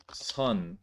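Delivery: 선 ending crisply in n, not ng; 선 pronounced carefully with a final n; clear 선. Shown as a demonstration. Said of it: "It's not 성, it's 선".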